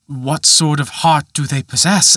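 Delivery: put-on a young man pleading his case; Peter crying out. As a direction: cry out helplessly. Peter asks.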